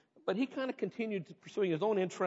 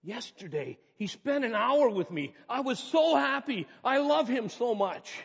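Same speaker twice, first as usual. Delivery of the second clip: higher, slow, tender reading of a wife's diary; 6 semitones higher, 4 dB louder, slower than usual. Acted. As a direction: read the loving wife's words gently. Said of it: "one of the diary entries said".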